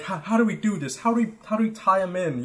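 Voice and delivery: a hint of fretful bystanders; imitating them. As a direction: lightly mimic anxious strangers. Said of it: "They're like".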